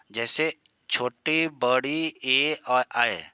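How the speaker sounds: drawn-out vowel sounds sung out clearly; vowel demo. Shown as a demonstration. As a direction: hold each vowel like a teacher's model. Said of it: "ये अग्र जीभ के आगे वाले भाग से निकलती है".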